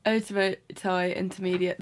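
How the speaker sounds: Odomodai Intermediate in a clipped English accent. Shown as a demonstration. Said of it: "that was very English".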